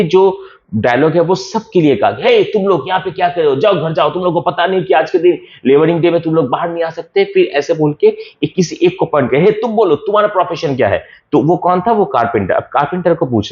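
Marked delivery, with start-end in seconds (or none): 2.2-7.2 mock scolding. Hindi paraphrase of angry Flavius. 9.4-11.0 mock scolding. Repeats Flavius pointing.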